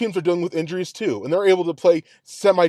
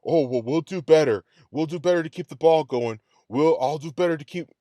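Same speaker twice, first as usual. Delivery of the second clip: mocking the coach; 3 semitones lower, 4 dB quieter than usual. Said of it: "All I'm hearing is lip work".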